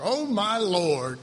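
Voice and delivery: slow, drawn-out complaint; rough-state Gideon. Shown as a demonstration. Preacher repeats the closer reading of Gideon, drawn-out complaint. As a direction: stretch each word as a weary grievance. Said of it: "I think that's closer".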